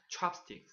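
Chopsticks said with lips rounded, whispered. Shown as a demonstration. Teacher showing lip rounding on Chopsticks, whispered. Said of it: "입을 좀 모아보자".

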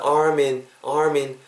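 "arm in" joined as "ar-min"; "arm in" said as one linked word. Shown as a demonstration. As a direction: carry the m of "arm" into "in". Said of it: "arm이랑 in이 붙으면서".

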